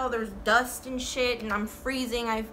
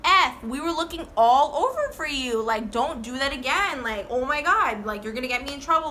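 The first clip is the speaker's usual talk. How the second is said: frantic scolding; 3 semitones higher, 4 dB louder than usual. Retold or imitated. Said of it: "And I was like".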